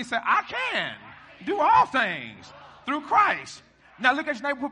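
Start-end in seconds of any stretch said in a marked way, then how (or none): 0.2-3.6 high, slow, shouted declaration; full-voiced preacher's rallying cry; with conviction. Shown as a demonstration. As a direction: show the congregation how to shout it. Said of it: "y'all ain't doing it like me".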